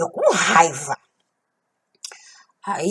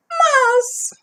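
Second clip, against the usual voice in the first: whispered. Acted. Sudden hushed aside.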